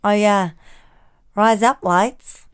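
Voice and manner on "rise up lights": slow, deliberate Australian accent. Shown as a demonstration. Testing a listener's accent hack, Australian accent. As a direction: try out an Australian twang slowly. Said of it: "you'll sound like an Australian".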